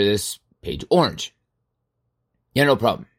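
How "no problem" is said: ordinary talk, nothing marked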